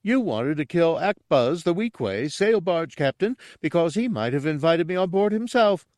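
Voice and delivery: high-pitched dim-witted character crying out; loud, high character shout; excited shout. A narrator's reading. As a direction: blurt out an accusation in a high voice. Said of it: "Gartog shouted".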